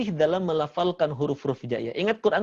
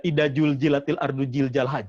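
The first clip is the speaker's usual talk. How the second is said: Sundanese z as j; 2 semitones lower than usual. Retold or imitated. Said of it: "Orang Sunda itu ja semuanya".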